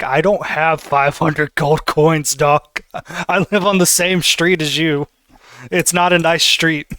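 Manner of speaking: lightly voiced detective admitting he is poor; mild embarrassed complaint; sheepish protest. Vincent protests to the tailor.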